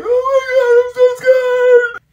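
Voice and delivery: very high, drawn-out whimper; hammed-up fearful squeal; mock terrified wail. Retelling sitting down on a roller coaster, mock terror. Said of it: "I was like".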